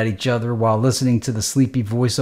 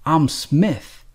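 snapped; 4 semitones higher than usual. Acted. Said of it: "the nurse snapped".

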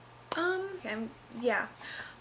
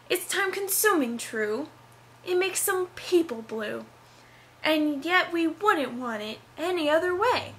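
spoken song lyrics declaimed with big theatrical swoops; dramatic reading; 3 semitones higher than usual. Shown as a demonstration. College student reading her play's song for YouTube, hammed-up dramatic reading. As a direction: recite the musical number like a hammy stage actor. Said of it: "a dramatic reading".

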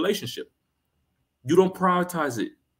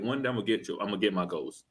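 mocking lazy boast; 6 semitones lower, 6 dB quieter, faster than usual.

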